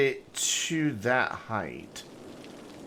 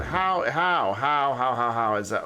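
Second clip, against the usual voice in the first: loud, repeated disbelieving how; exasperated; 4 dB louder than usual. Real, not acted. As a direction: throw up your hands, baffled. Exasperated at misaligned road.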